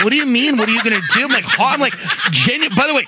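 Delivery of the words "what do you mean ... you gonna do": mildly mock-horrified, higher questioning; a touch of appalled confusion; retold horror. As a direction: act out baffled disbelief through a laugh. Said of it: "I'm just horrified".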